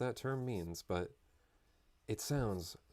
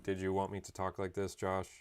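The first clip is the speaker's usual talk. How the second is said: a hint of a smug robot, even and steady; mock AI robot voice. AI mocking its owner Josh, lightly robotic. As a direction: tease like a snooping AI assistant. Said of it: "They're like".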